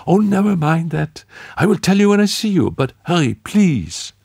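high, fast, agitated pleading; urgent fear. Acted. Tanith begs Rex to hurry, high and agitated. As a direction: hurry him, frightened. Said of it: "urgency and agitation of extreme fear".

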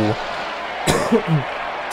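sharp real cough; a quick chesty cough. Real, not acted. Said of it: "kaszlnięcie kontrolne to było".

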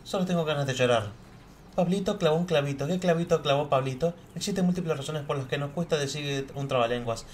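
sad schoolgirl monologue. Acted. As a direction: read it as a hurt girl hiding her pain, only a hint of a girl's voice. Reads a girl's sad monologue. (chica triste, voz apenas insinuada)

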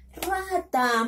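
teacher reading Rata as a connected word; syllables joined. Shown as a demonstration. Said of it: "Vamos a unirlo con la sílaba".

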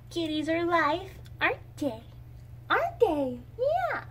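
high cooing voice for kittens; sweet sing-song talk to a pet. Real, not acted. Cooing to her cats.

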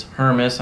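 Hermes as "HER-miss", short ending; Hermes said as HER-mis; corrected pronunciation. Shown as a demonstration. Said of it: "fixed the pronunciation for me".

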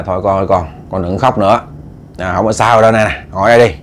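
lightly acted aunt hushing a crying boy; gentle soothing. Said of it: "Cái bà mới dỗ".

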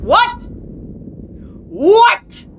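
high, loud rising yelp; disbelief. Real, not acted. Gamer reacting to a setback, high disbelieving shout. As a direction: shoot up sharply in shock.

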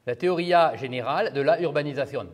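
Spanish title with French sounds; French accent. Shown as a demonstration. Lecturer redoing the title for French students, French accent. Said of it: "je vous fais en français".

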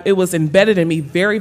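normal talking voice

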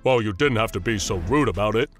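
indignant huff; huffy creature. Acted. Creature sulking at Pennywise, mock huffy. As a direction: sulk at the rude clown.

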